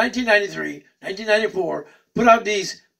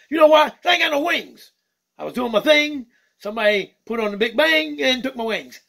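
higher, lively cartoon bird voice; excitable puppet bird greeting the fans; Skeeter the bird puppet; 5 semitones higher than usual. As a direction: play a cheeky funk-loving bird puppet.

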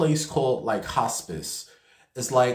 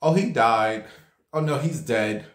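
casual. Retold or imitated. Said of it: "The nurse just casually says".

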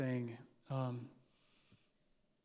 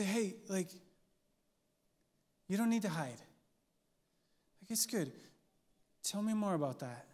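gentle curious invitation; 5 dB quieter than usual. Shown as a demonstration. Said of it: "And we say".

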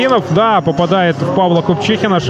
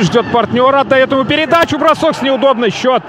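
excited goal call; 5 semitones higher than usual. Real, not acted. Live goal call rising.

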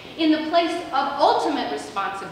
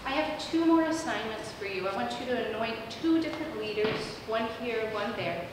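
gently hushed instructions; mildly softened, calm divine voice; God's whispery voice; 3 semitones lower, 5 dB quieter than usual. Acted. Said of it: "in that whispery voice".

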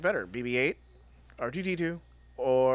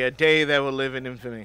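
mock solemn speech; 5 dB louder than usual. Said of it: "V-Day".

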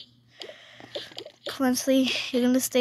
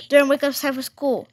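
calling out; 2 semitones higher, 6 dB louder, faster than usual. Pretend. Waking child for school.

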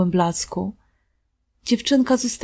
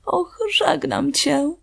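tearful farewell; 6 semitones higher, slower than usual. A narrator's reading. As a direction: let the tears slow the words. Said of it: "z płaczem".

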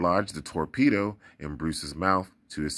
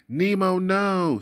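high, loud cry of alarm; a father's loud warning to his son; 12 semitones higher, 5 dB louder, slower than usual. Acted. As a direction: call out to stop the child. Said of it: "he cried".

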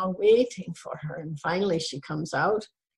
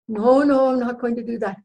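louder, higher acted protest; firm refusal; 4 semitones higher, 4 dB louder than usual. Wife refusing to call the doctor's office, adamant. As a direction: dig your heels in.

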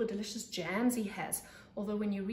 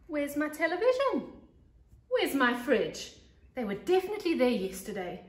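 higher, louder puzzled calls; alarmed questions; 6 semitones higher, 7 dB louder than usual. Acted. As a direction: search the house in rising alarm. Munch finds things missing.

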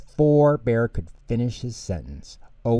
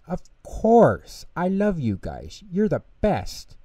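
eager reassurance; 9 semitones higher, 3 dB louder than usual. Acted. Bear reassuring Pip and Pop.

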